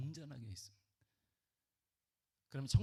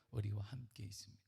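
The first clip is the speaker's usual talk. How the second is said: normal talking voice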